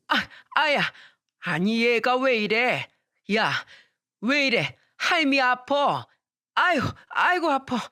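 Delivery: 맞아서 아파하는 할머니, 높게 아이고; 느릿하게 아프다고 하소연하는 할머니; hurt grandmother. Acted. Grandmother hit by boy. (손자에게 맞은 할머니, 높은 목소리로 아야)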